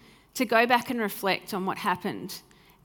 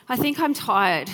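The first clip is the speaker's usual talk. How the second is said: put-on child's voice; 4 semitones higher, 6 dB louder than usual. Five-year-old daughter voiced.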